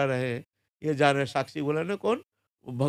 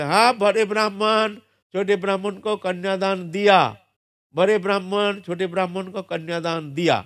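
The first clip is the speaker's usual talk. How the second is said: loud, higher proclamation from the deity; divine voice; 4 semitones higher, 4 dB louder than usual. Retold or imitated. Thakur ji testifying before the village council, loud proclamation. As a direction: announce it like a god testifying. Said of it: "Thakur ji आवाज़ सुनने में आया".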